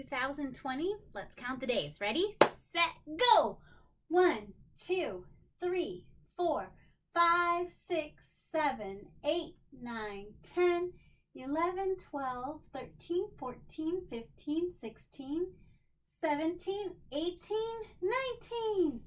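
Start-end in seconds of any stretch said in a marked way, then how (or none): 2.0-9.5 high, bright ready set go; excited start call; eager countdown. Real, not acted. 16.2-19.0 climbing higher on each number; building count. Real, not acted. Counting to today's date.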